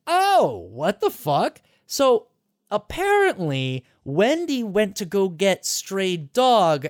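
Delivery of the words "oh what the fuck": shocked. Retold or imitated. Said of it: "you're like".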